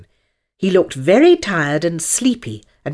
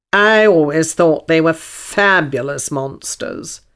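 unicorn voice. A narrator's reading.

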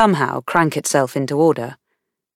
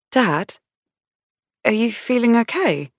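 gentle, higher-pitched question; concerned; 6 semitones higher than usual. A narrator's reading. Daughter checking on her moist-eyed dad, gently concerned. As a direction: check on him with mild worry. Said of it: "Beth's concerned voice".

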